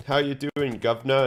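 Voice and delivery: a hint of caricature English accent; mock English accent. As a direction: imitate a cheery English local. Voices an English woman he met.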